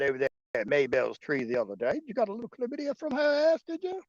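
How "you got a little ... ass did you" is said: high mock Australian accent, much higher; needling a mate in squeaky Aussie voice; mock Aussie koala. Koala ribbing a mate about chlamydia, high mock Aussie.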